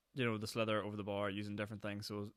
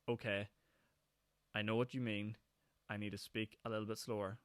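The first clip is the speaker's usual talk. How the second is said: slowed down and clear. Shown as a demonstration. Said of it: "Whereas if I just do that in my normal voice".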